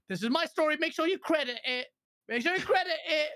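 mock villain claiming credit; mocking Jason's smugness. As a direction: mimic a glory-seeking reporter. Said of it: "It's like".

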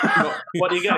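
laughing setup. Real, not acted.

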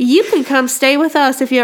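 imitating a hospitable Southern lady; Southern US accent. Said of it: "that's Southern hospitality".

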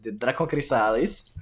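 "Draco Chrysalis" with "chry-SAH-lis" stressed; personal pronunciation. Shown as a demonstration. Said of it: "as I like to pronounce it".

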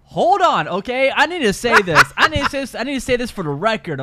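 laughing protest to set the record straight; loud protest. Real, not acted. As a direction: demand the floor, laughing a little. Protesting, defending himself.

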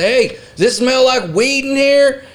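high, slow mock-innocent call; faux-innocent question. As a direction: bait the guards sweetly. Prank on prison guards.

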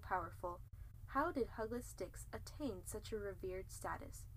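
mock-epic storyteller voice; lightly dramatic narrator; story narration. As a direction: narrate the legend grandly.

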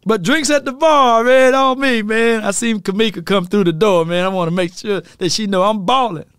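high, boastful party voice; showing off. Retold or imitated. McCarthy bragging at bar.

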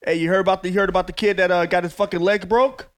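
low, soft menacing mob boss. Retold or imitated. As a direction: lean in like a quiet mob boss. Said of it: "speak to me like a fucking mob boss".

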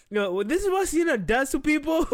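high, laughing outburst; laughing to tears. Real, not acted. Reactor blaming Sienna for his state, laughing to tears. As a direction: blurt it out high through laughter. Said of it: "I don't know why I'm crying".

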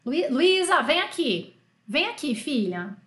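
lightly acted mum summoning her child; Brazilian mother calling. Mother telling daughter to come here, mild mock calling. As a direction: call the daughter over, as a Portuguese-speaking mum. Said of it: "Isso aqui em português".

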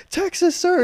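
high, loud recruit reply; imitated recruit shout. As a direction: sound off to the instructor. Recruit shouting answer to instructor.

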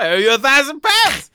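high, very loud comic yell; mock shout. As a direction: yell it as a shocked punchline. Shouted punchline after friend's guess.

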